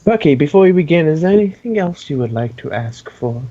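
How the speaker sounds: bright quick cheerful host; sweetly cheerful offer; cherry voice. Acted. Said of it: "He's doing the cherry voice".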